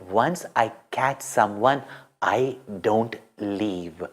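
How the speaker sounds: low, soft and slow, steady resolve; quiet determined promise; hushed, unshakable vow; calm firm saying. A narrator's reading. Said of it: "as the saying".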